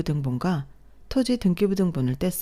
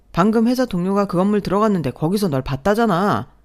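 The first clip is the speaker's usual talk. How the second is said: angry scolding; 4 semitones higher, 4 dB louder than usual. Acted. Husband scolding wife on phone.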